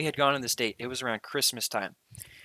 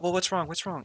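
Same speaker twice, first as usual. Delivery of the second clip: higher, quick worried questions; a raised, confused what's wrong; puzzled alarm; 6 semitones higher than usual. Retold or imitated. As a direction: imitate her baffled worry. Girlfriend confused by his warning.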